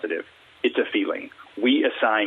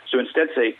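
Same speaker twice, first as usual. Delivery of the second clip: ordinary delivery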